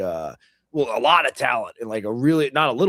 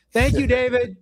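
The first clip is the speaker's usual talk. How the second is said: put-on voice; 9 semitones higher, 4 dB louder than usual. Playful thanks in put-on voice.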